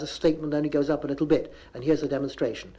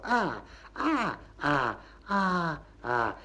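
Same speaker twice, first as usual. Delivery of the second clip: each "Ah" on a different tune, like Chinese; varied tones; 4 dB quieter, much slower than usual. Shown as a demonstration. Lecturer shows one word's meanings, "Ah" in varied tones. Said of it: "It depends on which way you say it".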